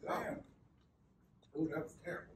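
quiet, pained and burning; mouth burning from spicy food. Real, not acted. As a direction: barely get it out, mouth on fire. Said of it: "So your mouth is on fire".

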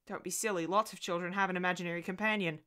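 usual speaking voice

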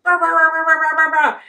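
high, loud squeaky mouse yaps; mock little mouse barking; tiny cartoon mouse yapping. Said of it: "the little mouse in the cartoon".

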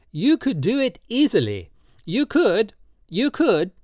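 put-on high, slow, pleading old man's voice; old tattooist Drioli, drunk and pleading. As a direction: coax him tenderly, in wine. Drioli urges.

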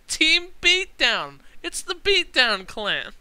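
big, loud hype-man call, high and slow; hype shout. Real, not acted. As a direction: announce the team like a ring announcer. Hyping up a new tag team.

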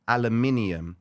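aluminium with five syllables, stress on min; al-uh-MIN-ee-um, fully sounded; British "aluminium". Shown as a demonstration. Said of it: "is how you say it".

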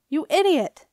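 high, loud outburst; furious insult. A narrator's reading. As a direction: hurl the insult angrily. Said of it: "Nico was furious".

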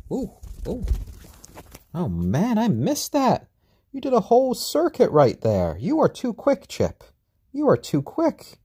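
high, loud, thrilled chatter; excited. Real, not acted. Owner thrilled by chick's flight, high and excited. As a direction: gush at the chick as it zooms around. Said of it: "I know you can hear the excitement in my voice".

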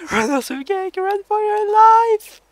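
panicked shout. Real, not acted. Shrieking warning to the cat.

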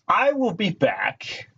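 Terminator line. Pretend. Announces return in movie line.

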